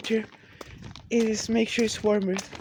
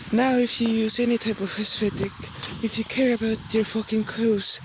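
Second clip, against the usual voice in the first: preachy rant; 3 dB louder than usual. Acted. Loud fashion rant.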